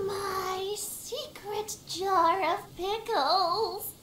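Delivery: mock sob. Lamenting his hidden pickle jar.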